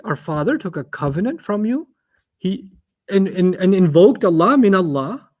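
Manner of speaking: acted rebuke rising into indignant questions; critical. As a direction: take them to task, increasingly incredulous. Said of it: "turns to them in a critical way".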